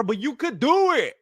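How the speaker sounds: hammed-up encouragement with a swoop on "do"; imitating a cornerman urging his fighter on; falsely hopeful coach, lightly parodied; mock corner pep talk. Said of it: "They're telling him".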